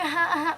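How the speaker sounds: soft, light pretend whimper; small mock cry. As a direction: imitate ordinary little crying. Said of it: "not even, like, crying".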